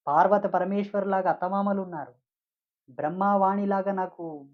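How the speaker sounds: a housewife lightly voiced, rebuking a proud yogi; indignant scolding. Housewife scolding the shouting yogi, mildly retold indignation. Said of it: "అని గాండ్రిస్తున్నాను".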